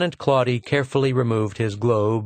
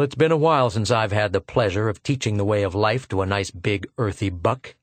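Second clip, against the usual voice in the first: lightly voiced contemptuous officer; sneering officer. Lieutenant taunting Arverdon, light sneer.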